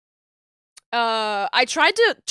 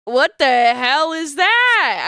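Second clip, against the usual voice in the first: confused exclamation; 3 semitones higher, 5 dB louder, slower than usual. Retold or imitated. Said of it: "I was so confused".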